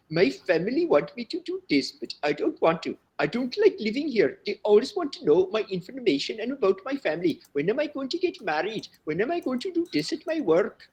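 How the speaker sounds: high mock Indian accent lament; serious Indian student. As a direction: mimic a student unloading worries. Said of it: "they're very serious".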